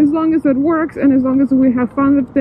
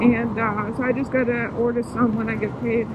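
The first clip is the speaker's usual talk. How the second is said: muffled inside a helmet; speaking through a helmet; 8 dB quieter than usual. Real, not acted. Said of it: "my voice is a little bit muffled".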